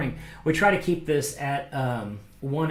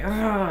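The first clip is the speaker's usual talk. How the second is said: mock mad cry; 6 semitones higher than usual. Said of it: "that mad cry".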